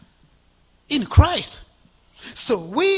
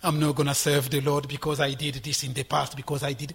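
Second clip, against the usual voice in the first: a hint of a downcast believer, softer and lower; voicing a guilty believer; 6 semitones lower, 4 dB quieter than usual. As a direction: mutter it like someone weighed down by shame. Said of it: "You say".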